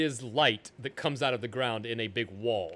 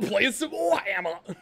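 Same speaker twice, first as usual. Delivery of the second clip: slow, hammed-up English pub shout; mock British accent, drawn out; UK accent impression; 7 semitones higher than usual. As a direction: call it out in a put-on British voice. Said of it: "perfect U K accent".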